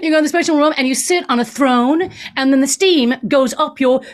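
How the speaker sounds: lightly mocked Californian accent; a hint of a breezy Californian; California talk. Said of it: "that's how they talk in California".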